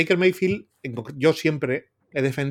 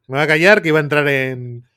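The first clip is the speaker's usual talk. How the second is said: firmer, louder repeat; louder restated; 7 dB louder than usual. Real, not acted. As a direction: declare it louder.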